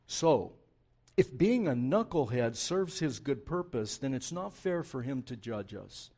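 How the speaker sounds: whiny protest; whine. Acted. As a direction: complain like a spoiled kid. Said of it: "that's said in a whiny voice".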